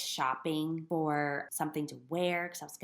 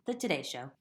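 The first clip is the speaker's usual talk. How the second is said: laughing; 4 semitones higher, 7 dB louder, much slower than usual. Real, not acted. Laughs while naming favorite show.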